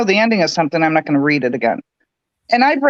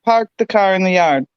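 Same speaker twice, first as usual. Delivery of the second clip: Boston accent attempt; 3 semitones lower than usual. Shown as a demonstration. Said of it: "Missy, say it".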